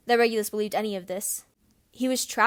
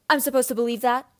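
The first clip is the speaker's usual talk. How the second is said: angry disbelief; 3 semitones higher, 6 dB louder than usual. Acted. James confronting Snape.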